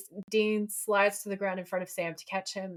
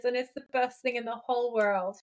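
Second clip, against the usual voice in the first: gushing; 4 semitones higher than usual. Real, not acted. Gushing over the actors' friendship.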